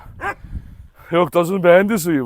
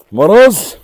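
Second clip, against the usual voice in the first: calling the dog; 5 dB louder than usual. Real, not acted.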